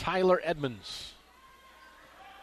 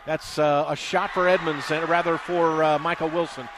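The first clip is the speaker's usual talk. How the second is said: excited call; 5 dB louder than usual. Real, not acted. Live call of a made shot.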